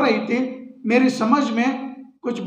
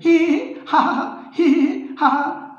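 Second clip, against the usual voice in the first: higher put-on giggle, slow; daughter-in-law laughing when asked why; 5 semitones higher than usual. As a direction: let the laugh roll out. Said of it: "हंसने लगती है".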